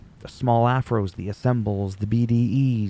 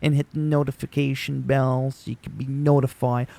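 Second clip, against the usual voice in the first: mock subscribe plea, pitched a bit up; generic YouTuber spiel; 3 semitones higher than usual. Creator parodying what everybody always says, mock YouTuber spiel. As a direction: recite it like a rote channel plug. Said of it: "everybody always goes".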